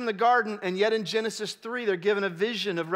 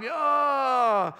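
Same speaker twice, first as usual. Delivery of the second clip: disappointed groan; 4 semitones higher than usual. Shown as a demonstration. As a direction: groan like you lost the job. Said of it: "lost out on a job".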